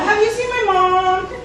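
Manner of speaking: put-on lost child voice.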